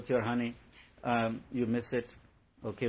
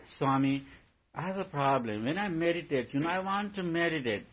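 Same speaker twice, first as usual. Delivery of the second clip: higher, laughing imitation of a whining disciple; mock devotee complaint; 5 semitones higher than usual. Disciple complaining to Swami about his puppy, lightly mocking. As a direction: lightly play the devotee moaning to his teacher. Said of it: "Now you come to Swami".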